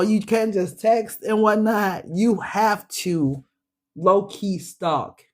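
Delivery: slow drawn-out punchline. Real, not acted. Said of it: "slowing punchline".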